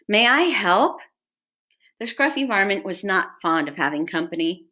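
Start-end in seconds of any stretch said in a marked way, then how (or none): 0.1-1.0 higher-pitched, eager offer; volunteer keenly. A narrator's reading.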